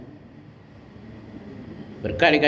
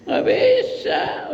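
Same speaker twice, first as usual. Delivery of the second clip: stern refusal; much slower than usual. Retold or imitated. God's answer, drawn out.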